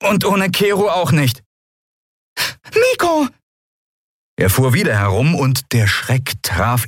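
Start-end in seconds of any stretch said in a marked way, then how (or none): 0.0-1.4 less convinced. Acted. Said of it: "mit etwas weniger Überzeugung". 2.7-3.3 high sharp cry of a name; small creature warning the boy, high alarmed call. Acted.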